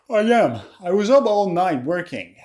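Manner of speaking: weary reply after a heavy breath; hammed-up tiredness; acted exhaustion. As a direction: answer as if worn out from a night's work. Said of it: "You look really tired today".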